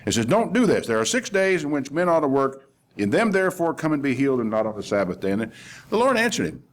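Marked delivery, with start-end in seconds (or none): 0.2-5.3 raised pitch, settling by the end; retold scolding, mildly cross; mock scolding. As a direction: imitate a boss telling everybody off. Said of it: "he starts scolding everybody".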